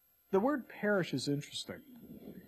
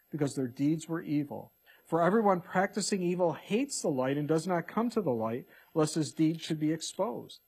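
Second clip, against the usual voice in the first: raised, measured Bible reading voice; scripture reading. Acted. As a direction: read the verses out like a preacher at the pulpit. Reads scripture aloud, preaching.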